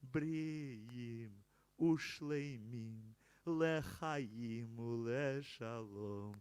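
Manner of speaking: solemn recited prayer, ending on a firm amen; prayer recitation. Acted. Leader reciting prayer to the congregation, solemn. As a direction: read the blessing to the congregation.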